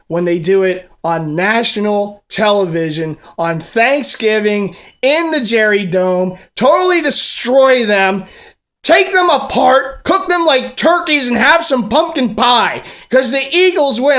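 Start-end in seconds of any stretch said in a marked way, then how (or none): 3.4-14.2 gloating. Real, not acted. Building gloating celebration.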